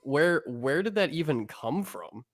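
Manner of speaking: put-on valley girl accent. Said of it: "a super valley girl accent".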